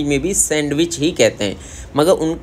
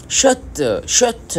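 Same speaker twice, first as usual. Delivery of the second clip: शर्ट said as shat, much higher with the r dropped; Korean accent; 8 semitones higher, much slower than usual. Shown as a demonstration. Teacher contrasting Korean शर्ट with the English word, Korean accent. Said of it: "इस तरह बोलते हैं".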